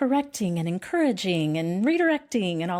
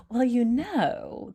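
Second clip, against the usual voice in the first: higher, slow, drawn-out self-parody; imitated know-it-all self; 5 semitones higher, much slower than usual. Friend launching into personality-type talk, self-mocking know-it-all. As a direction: ease into a pet topic, stretching the words. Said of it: "once I start going".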